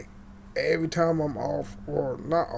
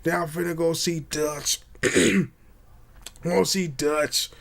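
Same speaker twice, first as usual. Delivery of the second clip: Arthur Morgan. Retold or imitated. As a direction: put on a game cowboy's voice, lightly. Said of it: "you know how his voice is".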